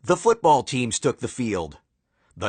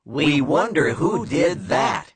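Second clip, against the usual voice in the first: crowd shout. Acted. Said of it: "shouted the fans".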